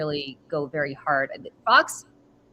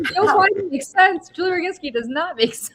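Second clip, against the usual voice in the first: mock disbelief; 12 semitones higher, 5 dB louder than usual. Comparing herself to Biden on the list, high squeaky mock disbelief. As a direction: squeal it like you can't believe it. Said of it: "I'm like".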